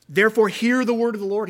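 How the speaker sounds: loud, high call, "hear" ringing out; commanding call. Acted. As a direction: summon the crowd to listen. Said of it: "He's commanding their attention".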